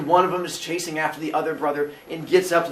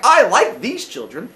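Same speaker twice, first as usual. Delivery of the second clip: pleased father; 5 semitones higher, 7 dB louder than usual. Acted. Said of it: "He was like".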